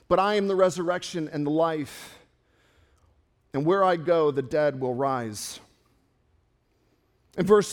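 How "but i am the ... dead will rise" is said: low, settling reassurance to someone grieving; solemn assurance. Acted. Gentle assurance to grieving Martha.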